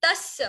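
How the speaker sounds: तस् with a held double s; pronunciation demo. Shown as a demonstration. Teacher showing a class how to pronounce, careful demo. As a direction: say तस् carefully, holding the closing s. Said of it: "pronunciation पहले देखते हैं".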